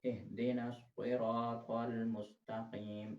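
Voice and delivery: सिरातल with a thick heavy स; slow, heavy स in सिरातल; heavy sad. Shown as a demonstration. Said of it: "स्वाद को थोड़ा सा मोटा करके". (मोटा स्वाद, धीमा)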